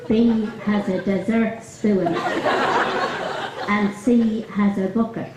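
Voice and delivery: a light put-on Dublin accent, laughing through it at times. Retelling a Maureen Potter sketch to the golf club, lightly Dublin accent. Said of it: "So I'm gonna put on the best Dublin accent".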